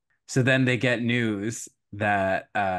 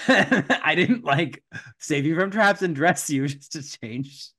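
high giggle then a louder laughing protest; 6 semitones higher, 4 dB louder, slower than usual. Pretend. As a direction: laugh through the words. Cinderella laughing at mice.

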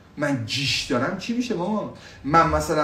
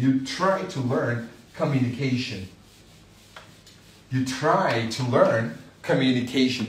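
slow model phrase; 4 semitones lower, much slower than usual. Shown as a demonstration.

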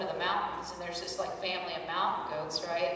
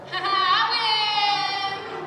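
laughing, then a much higher, louder I win; laughing triumph; 12 semitones higher, 9 dB louder than usual. Pretend. To the other parents, crowing victory through laughter.

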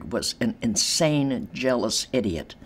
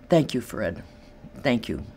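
sincere thanks; 3 semitones lower, 5 dB quieter than usual. Real, not acted. Thanking late ex-husband.

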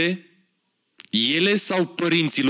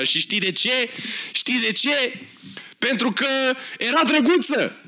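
mock punchline; 8 semitones higher than usual. Mocking the card joke, rising into laughter. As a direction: voice climbs higher and higher, breaking into a laugh.

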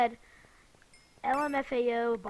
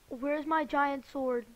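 mock crying; slower than usual. Real, not acted. Lost sword, crying tone.

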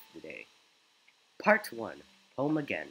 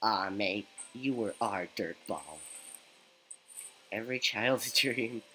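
a hint of an old goat neighbor. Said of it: "I have to do a goat voice".

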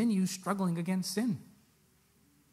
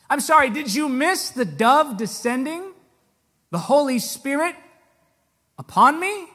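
higher, mock-incredulous questions; sarcastic retort; 7 semitones higher, 8 dB louder than usual. Preacher voicing Jesus mocking the devil, sarcastic. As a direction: needle him with mock disbelief.

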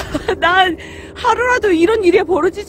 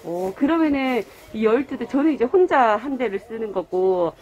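muffled by cloth mask; speaking behind fabric mask; through a face mask; 12 semitones lower, 5 dB quieter than usual. Real, not acted. Seen 2: Checkered cloth mask covers mouth and nose throughout labelled words.

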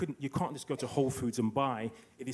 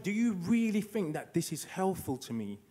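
indignant mother; 6 semitones higher than usual. Retold or imitated. Indignant mother voiced in a story.

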